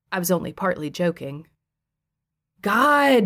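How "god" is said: spat out, higher and louder; exasperated. Acted. Husband fed up with his wife, spitting it out exasperated. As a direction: throw it out in disgust. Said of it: "spat out with exasperation".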